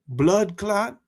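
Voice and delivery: put-on Jamaican accent, rising question on blood clot. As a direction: toss out a Jamaican-accented exclamation. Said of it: "say blood clot with my Jamaican accent".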